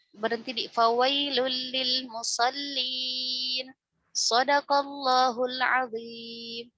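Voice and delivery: slow recited stop at fawailul lil musallin; wrong stop demo. Shown as a demonstration. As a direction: halt right after "musallin" as a bad example. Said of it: "Kayak misalkan kalau misalkan kita".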